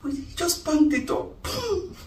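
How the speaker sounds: tearful complaint. Acted. Wife tells her friend he left without the ritual, teary. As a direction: pour out the hurt through tears. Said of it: "How are you crying now?".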